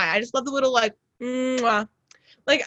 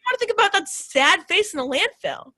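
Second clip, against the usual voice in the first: high pleading voice; 9 semitones higher than usual. Retold or imitated. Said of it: "And I'm like".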